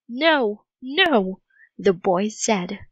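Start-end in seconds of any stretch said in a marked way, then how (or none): 0.1-1.4 frantic. Acted. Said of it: "He sounded frantic".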